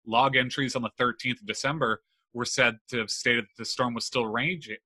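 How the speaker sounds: talking with a retainer in; words slurred round a retainer; wearing a retainer. Real, not acted. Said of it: "I have my retainers in".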